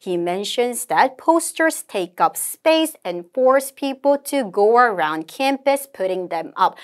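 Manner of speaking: slow, measured English recitation; model read-aloud. Shown as a demonstration. Teacher models the conversation summary, slow deliberate reading. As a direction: read it out slowly, phrase by phrase.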